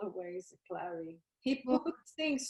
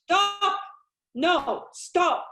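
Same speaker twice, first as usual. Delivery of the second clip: much higher and louder, breaking into a cry; screaming stop; 7 semitones higher, 9 dB louder, much slower than usual. Acted. Mother screaming at her daughter to stop the fight, crying. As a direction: shriek at them to stop, near tears.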